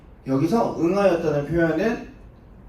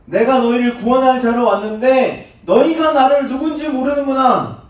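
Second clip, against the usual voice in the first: rebuking; 4 dB louder than usual. Acted. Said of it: "예수님이 질책하시는 겁니다".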